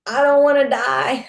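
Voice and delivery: a retold panicked scream; screaming plea. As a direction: beg for your life. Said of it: "like, screaming".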